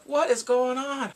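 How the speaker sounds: high, loud, drawn-out question; exasperated outcry. Retold or imitated. Viewer hit by another blow, loud slow exasperation. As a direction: demand it slowly in disbelief.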